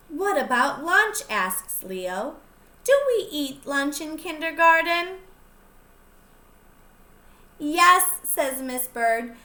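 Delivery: lively storybook reading; picture book read-aloud voice; reading to children. Acted. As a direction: read it out to the little ones, bright and clear. Teacher reads picture book aloud.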